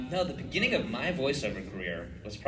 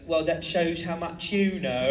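raised, badly faked South African accent; terrible South African accent; 5 semitones higher than usual. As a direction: do South African badly, drifting toward New Zealand. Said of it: "that's also a terrible South African stuff".

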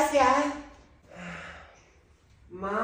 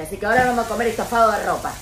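fast gleeful; 7 dB louder, much faster than usual. Acted. Mother's gleeful punishment.

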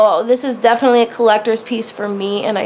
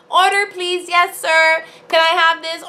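higher, eager, polite-pushy request; eager ordering voice; 6 semitones higher than usual. Retold or imitated. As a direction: order it right now, eagerly. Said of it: "I'm like".

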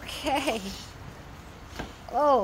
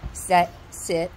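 firm dog commands; 7 semitones lower than usual. Real, not acted.

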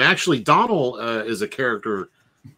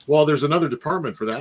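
fast polite agent; 3 semitones higher, much faster than usual. Retold or imitated. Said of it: "Well, sir, I'm just here to help you".

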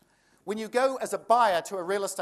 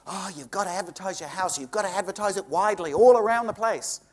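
mocking agents; 5 dB louder than usual.

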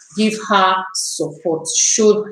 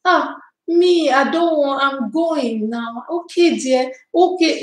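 imitating calm friend; 3 semitones higher than usual. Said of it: "She talks very calmly".

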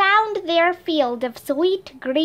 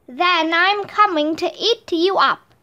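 roaring troll; 4 semitones higher than usual. Acted. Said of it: "roared the troll".

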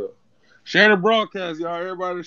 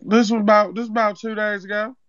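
a lightly put-on accent, prank caller opening the complaint; Zeke from Power; 4 dB louder than usual. Prank caller tells the home cook about old food, lightly put-on accent. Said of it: "why is he talking like Zeke off power".

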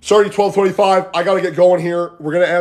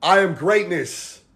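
slow, spaced-out affirmation; mantra; slower than usual. Shown as a demonstration. Coach giving the group a mantra, slow affirmation. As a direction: say it slowly for others to repeat. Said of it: "Better, better word".

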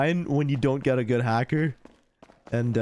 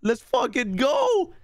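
excited; 10 semitones higher, much slower than usual. Retold or imitated. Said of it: "I was like".

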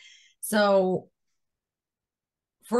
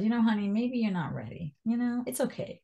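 sweet reassurance; 4 semitones higher than usual. Retold or imitated. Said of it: "And she said".

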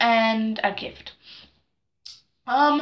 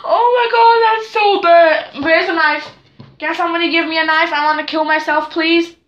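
hammed-up despair; 4 semitones higher, 4 dB louder than usual. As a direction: gasp then much higher, louder, half-crying wail. Embarrassed at forgetting dancer's name.

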